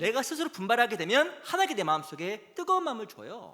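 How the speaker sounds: loud, high-pitched sermon delivery; impassioned preaching. Real, not acted. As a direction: preach it at full force to rouse the congregation. Preacher rises to full force.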